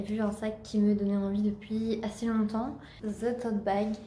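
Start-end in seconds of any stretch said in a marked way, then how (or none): 3.0-3.9 English words in a thick French accent. Real, not acted. Vlogger naming her bag for viewers, French-accented English. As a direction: say it with a real Norman French accent. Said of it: "avec mon accent bien français, bien normand".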